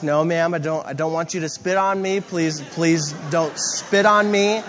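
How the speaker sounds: measured, polite pleading, slowing at the end; trying to be calm. Retold or imitated. Man pleading with woman not to spit, trying to stay calm. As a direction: retell a careful attempt to placate someone. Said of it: "I'm trying to be calm".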